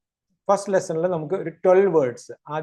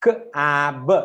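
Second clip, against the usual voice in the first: three sounds run closely together; faster blending; much slower than usual. Shown as a demonstration. Teacher speeds up the blend for learners, sounds closer. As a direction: close up the gaps between the sounds. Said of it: "ഇനി fast ആക്കുക".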